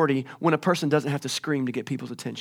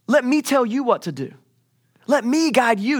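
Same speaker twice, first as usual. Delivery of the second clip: raised, insistent mock exasperation; exasperated God; 8 semitones higher, 4 dB louder than usual. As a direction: push each plea higher and harder. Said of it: "He's like".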